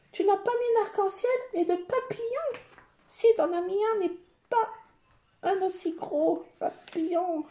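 high, incredulous questioning; mock outrage. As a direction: act scandalised by a tiny omission. Playacted outrage at missing stickers. (indignation jouée, voix aiguë)

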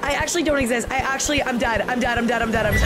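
laughing. Real, not acted. Caught by ghost, laughing.

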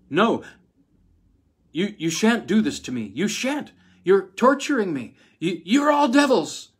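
high, loud hysterical scream. A narrator's reading. Wife turns on the men around her, high hysterical screaming. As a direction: scream it at them as if cornered. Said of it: "she screamed".

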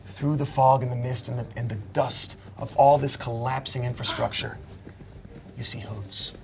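soft, measured game master storytelling; suspenseful narration. Acted. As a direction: build suspense quietly, phrase by phrase. Game master's suspenseful scene setting.

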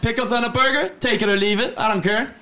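high, pushed hack-comic rhythm; mock stand-up comic. Co-host spoofing an observational comic, high punchy delivery. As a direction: parody an observational comic's opinions.

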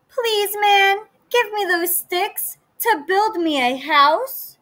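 high, sweet piglet voice; little pig voice. Acted. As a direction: ask politely like a small pig. Second pig asks.

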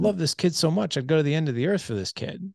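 baffled indignation. Retold or imitated. Father holding his kid, baffled that anyone could leave. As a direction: ask it like you truly can't fathom it. Angry at father, inner rant.

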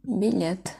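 Bilet, stress on the last syllable, let; said with a final stress. Shown as a demonstration. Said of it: "Burada son hece vurgulu". (son hece vurgulu Bilet)

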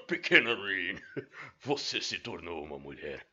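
put-on slow old man voice, lightly done; grumpy old man. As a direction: speak slowly like an old man. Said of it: "Eu preciso fazer uma voz pro Oni". (voz de velho rabugento leve)

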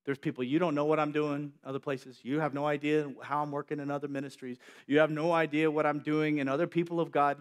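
gentle voice of God. Acted. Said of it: "And he says".

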